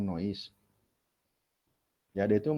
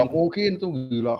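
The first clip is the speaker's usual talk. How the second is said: incredulous exclamation; 6 semitones higher, 6 dB louder than usual. Real, not acted. Rejecting student's naive idea.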